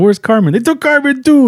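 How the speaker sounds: high-pitched mock alarm; hammed-up panicked movie dialogue; alarmed exchange. Acting out distressed movie dialogue.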